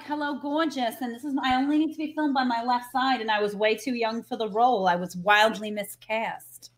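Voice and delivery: lightly campy diva impression; a hint of theatrical Broadway diva; Carol Channing voice. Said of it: "I'm doing her voice right now".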